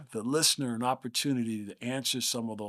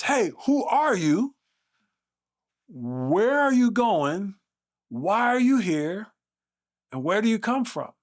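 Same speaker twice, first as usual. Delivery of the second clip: loud voice; 9 semitones higher, 7 dB louder than usual. Retold or imitated. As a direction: boom it out to a hushed room of freshmen. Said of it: "with a loud voice".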